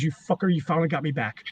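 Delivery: low, quiet retold grumble; grudging aside under the breath; muttering under his breath. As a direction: mutter it softly, as if not meant to be heard. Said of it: "he mutters under his breath".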